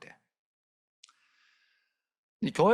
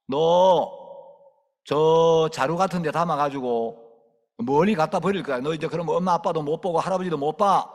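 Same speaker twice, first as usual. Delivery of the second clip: louder, ominous threat; scary warning; 5 dB louder than usual. Retold or imitated. Preacher scaring a girl about strangers with a sack. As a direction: frighten the child.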